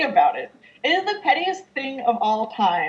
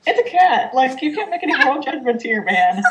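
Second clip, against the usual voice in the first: exasperated; 4 semitones higher, 4 dB louder than usual. Retold or imitated. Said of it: "and I'm like".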